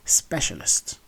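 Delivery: specialist as SPESH-uh-list; correct pronunciation. Shown as a demonstration. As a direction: say specialist with a sh sound, first syllable stressed. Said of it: "No, it's".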